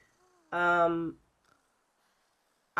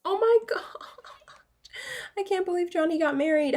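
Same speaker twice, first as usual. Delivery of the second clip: laughing disbelief; 11 semitones higher, faster than usual. Real, not acted.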